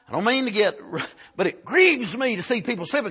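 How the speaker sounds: ordinary delivery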